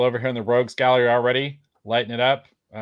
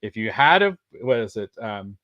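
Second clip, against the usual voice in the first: Raul Julia impression; 4 semitones higher, 3 dB louder than usual. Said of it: "makes me think of Raul Julia from Street Fighter".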